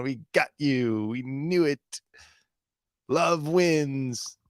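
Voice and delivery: hammed-up excited liberal parody; mock-triumphant gloating; mock super-excited. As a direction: imitate an over-excited political crusader. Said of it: "They're, like, super excited".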